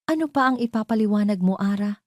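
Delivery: high, fast, biting retort; cold anger. Acted. Marco turns on Ara, fast and high. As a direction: throw the question back at her. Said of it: "bumalik sa dating lamig".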